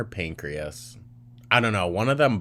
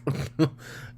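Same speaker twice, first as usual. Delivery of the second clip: short mock cackle, pitched high; high, breathy snicker in imitation; imitated cackle; 7 semitones higher than usual. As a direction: imitate staff cackling behind her back. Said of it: "they left that room freaking cackling".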